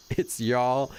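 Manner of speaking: hammed-up Texan twang; bad fake Texas accent. Streamer failing at a Texas impression, fake accent. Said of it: "a bad impersonation of a Texas person".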